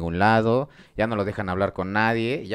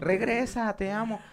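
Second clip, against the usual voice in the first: mock crying plea; 9 semitones higher, slower than usual.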